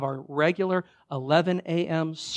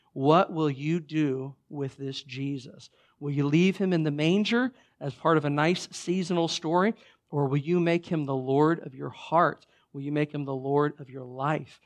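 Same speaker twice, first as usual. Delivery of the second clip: serious challenge. Retold or imitated. Nicodemus asks the crowd about Jesus, serious challenge. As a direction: put the questions seriously, weighing the words. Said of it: "kind of a serious conversation".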